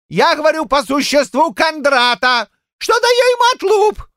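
put-on high, shouting old-man fury; fly at them like a young rooster; high furious old man shouting; furious old Shchukar. A narrator's reading. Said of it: "затряслась от ярости".

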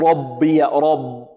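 "ربي" wrongly said with a heavy, full ب; slow faulty demo, thick ب in "ربي"; thickened ba. Shown as a demonstration. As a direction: let the heaviness of the ر spill into the ب of "ربي". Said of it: "لا نقول".

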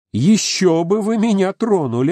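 high, scornful brush-off; mock him with cold disdain; scornful retort. Heroine scornfully rebuffs the Mexican. (презрительная отповедь)

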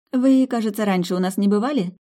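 high, playful, curious question; flirty waitress. Acted. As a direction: tease the stranger a little.

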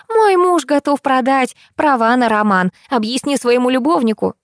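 high, shrill-edged tirade; ranting madwoman. Acted. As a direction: rant at her like a madwoman. Crazy woman ranting on phone. (взбешённая скандалистка)

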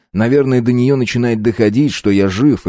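ordinary delivery

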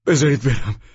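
loud high shout leaning on بذارید; desperate loud high cry, بذارید hit hardest. Acted. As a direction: scream بذارید برم to be let go. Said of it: "ترکوفسکی فریاد زد".

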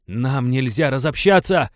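loud cry with fear breaking in; frightened shout. Acted. Venchura shouts at the dispersing crowd, frightened shout. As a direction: yell it out, scared the crowd will split. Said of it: "крикнул Венчура".

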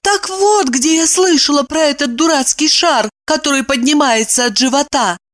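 high, lively woman's voice; Evdokia's voice. A narrator's reading. Evdokia muses aloud to herself, high voice. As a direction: voice her thoughts as the heroine. Female character voice, Evdokia's thoughts.

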